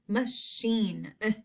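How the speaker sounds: "Machine", then its vowel alone as a brief "Eh"; short I sound. Shown as a demonstration. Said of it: "a short I sound".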